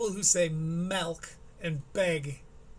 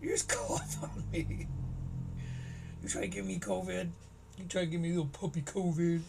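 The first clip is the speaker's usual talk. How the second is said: mock outraged woman; 4 dB quieter than usual. Mock outraged woman after cough.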